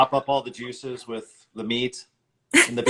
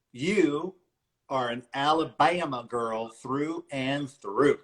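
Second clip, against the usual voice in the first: drawn out; slower than usual. Acted. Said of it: "Why did you have to say it like that".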